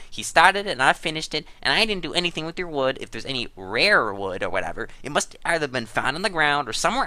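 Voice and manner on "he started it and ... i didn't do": higher and louder, insisting it wasn't his fault; indignant protest. Real, not acted. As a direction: push back hard, voice rising. Defensive quarrel over missing wood.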